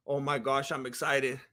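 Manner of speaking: under the breath, barely containing it; excited whisper before the walkout; hushed excitement. Real, not acted.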